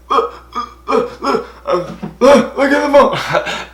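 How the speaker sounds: high, breathless stammer at a laugh; can barely get the words out; stammering excitement. Retold or imitated. Telling mom to look, in a stammering high excited rush.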